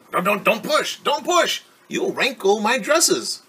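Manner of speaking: put-on a vain girl fussing over her dresses; fussy refusal. Ari refuses her friends' help.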